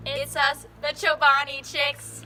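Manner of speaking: excited intro. Acted. Loud vlog intro greeting.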